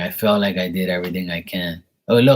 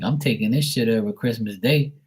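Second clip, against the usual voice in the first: mock ranting; 6 semitones higher than usual. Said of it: "And I'm like".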